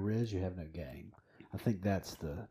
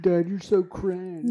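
put-on teen eye roll; 9 semitones higher, 6 dB louder, slower than usual. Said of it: "roll their eyes and go".

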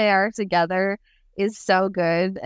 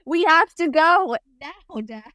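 urgent son voice; 9 semitones higher, slower than usual. Retold or imitated.

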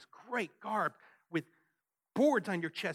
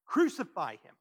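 firm, somewhat louder mock mob cry; retold crowd shout; 6 dB louder than usual. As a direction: repeat the mob's demand, slightly held back. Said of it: "They're gonna shout".

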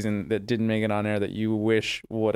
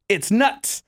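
laughing punchline; 11 semitones higher, 3 dB louder than usual. Retold or imitated. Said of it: "he goes".

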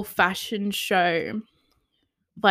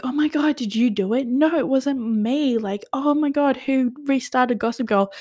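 higher-pitched feigned astonishment; mock shocked innocence; 4 semitones higher than usual. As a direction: imitate teachers acting clueless. Imagines teachers acting surprised, denying it.

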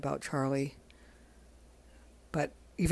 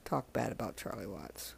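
whisper; 6 semitones lower, 9 dB quieter than usual. Real, not acted. Aside while praising a drummer.

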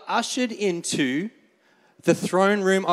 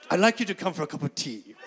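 a hint of posh royal voice, quicker and laughing through it; half-hearted royal invitation, breaking into a laugh; King Charles; 3 semitones lower, 4 dB quieter, faster than usual. Pastor voicing King Charles inviting Oliver to tea, mock-regal and laughing. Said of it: "I'm not gonna do anymore".

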